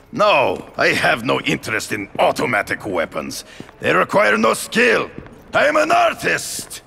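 rising to a furious shout; angry outburst. Acted. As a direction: build from firm to yelling. Phone call turns into outburst.

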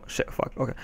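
a soft hissed swear at yourself; whispered curse. Real, not acted. Teen vlogger loses his sentence, cursing softly to himself. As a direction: curse under your breath, then recover.

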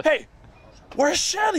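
hammed-up demanding rock star; mock pushy visitor. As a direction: push the question like a rude stranger at the window. Visitor asking again, retold.

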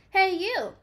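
high, loud calling out; grouchy bug challenging a stag beetle; grouchy holler. A narrator's reading. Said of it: "said the grouchy ladybug".

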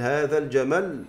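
الجمل said slowly, stopping on a doubled, held final L; doubled final lam. Shown as a demonstration. Teacher showing students the doubled pausal lam in الجمل. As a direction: drag out الجمل and press a double L at the end. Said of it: "عند الوقف".

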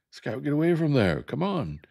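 high, loud shouted warning; urgent shout. Acted. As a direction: yell at her to get away.

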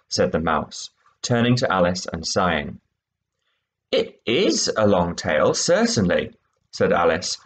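expressive read-aloud; story reading. A narrator's reading. Teacher reading the mouse's tale, expressive. Teacher reads second extract.

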